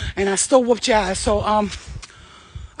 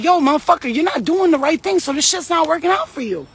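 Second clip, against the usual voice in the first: higher-pitched, blunt imitation of a straight talker; aggressive; 5 semitones higher than usual. Aggressive person tells you straight up, blunt and aggressive. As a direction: tell them straight up, no softening. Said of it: "an aggressive person be like".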